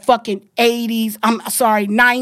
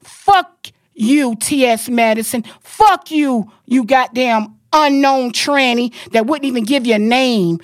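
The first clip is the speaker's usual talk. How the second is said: real anger. Real, not acted. On the podcast, cursing out T S Madison in real anger. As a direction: lash out at her for real. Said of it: "because I'm fucking mad".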